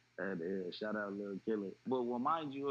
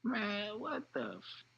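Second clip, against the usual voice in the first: far higher, stunned outcry; stunned by the news report; retold shock; 11 semitones higher, much slower than usual. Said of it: "I'm like".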